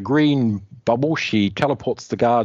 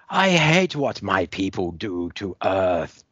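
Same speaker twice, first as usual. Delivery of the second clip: put-on Dommy alien girl; slower than usual. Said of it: "Dommy goes".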